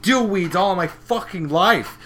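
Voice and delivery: high, loud indignant tirade; mock angry rant. Gilda ranting at the whole party, mock fury. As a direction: hammer each insult, drawing out the end. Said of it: "and she's fucking angry".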